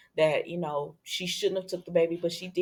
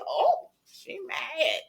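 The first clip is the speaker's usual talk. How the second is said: sassy sneer; 10 semitones higher, 4 dB quieter, much slower than usual. Pretend. Sassy commentary on Sloan.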